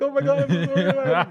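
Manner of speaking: high, rushed panic, played for laughs; mock breakdown. Retelling a phone call from the zoo about broken laws, mock panic. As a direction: blurt it out in a comic freak-out. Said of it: "Big breakdown".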